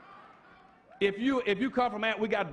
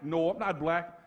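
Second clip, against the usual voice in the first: lower, sheepish mock dodge with a laugh; mocking evasive answer; 4 semitones lower than usual. Preacher mocking a flustered man who denies being black.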